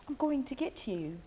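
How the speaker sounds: mock witchy movie-villain threat; hint of a cackling witch. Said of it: "That sounded like the witch".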